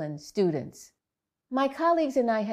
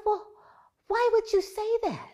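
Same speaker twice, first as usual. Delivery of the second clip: a touch of disbelief; 13 semitones higher than usual. Retold or imitated. Mother questioning her son.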